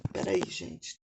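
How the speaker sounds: hoarse, soft through a tickle in the throat; clearing a catch in the throat; frog in throat. Real, not acted. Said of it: "tô com um pigarro na garganta".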